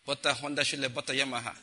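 words run together like tongues; mimicking tongues. Preacher quotes old man mocking Pentecostals, mimicking tongues. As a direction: slur "Butter Honda" into one foreign-sounding run. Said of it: "if you say that fast, it sounds like tongues".

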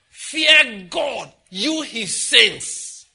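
high, booming exhortation; preacher's loud call. Real, not acted. Preacher of the fear of God exhorting the saints, loud call. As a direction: cry it out, stretching the last words long.

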